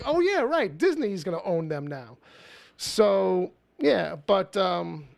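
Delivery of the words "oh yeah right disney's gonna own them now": sarcastic. Retold or imitated. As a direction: scoff at the idea. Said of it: "'cause it's like".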